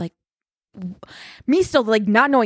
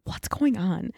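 retold hushed question; 7 dB quieter, slower than usual. Quietly asking behind housemate's back.

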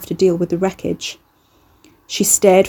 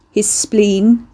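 a touch louder, firmly repeated. Acted. Ricky repeats himself to Carrie, a touch louder. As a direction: say it again so she hears. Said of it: "Ricky repeated louder".

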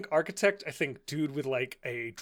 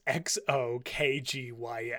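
slow, letter by letter; spelling it out; slower than usual. Shown as a demonstration. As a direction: spell it out slowly.

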